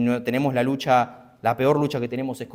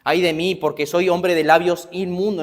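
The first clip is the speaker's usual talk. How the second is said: Isaiah lamenting; 4 semitones higher, 3 dB louder than usual. Acted. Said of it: "como dijo Isaías".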